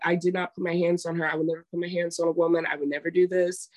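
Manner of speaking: mildly upset, rapid-fire denial; retold upset denial. Accused man denies hitting a woman, retold as upset. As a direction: imitate a hurried, indignant protest. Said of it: "he's getting so upset".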